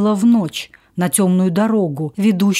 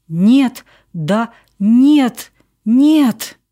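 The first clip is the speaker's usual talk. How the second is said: distraught; 4 semitones higher, 5 dB louder, much slower than usual. Acted. Distraught wife answering friends.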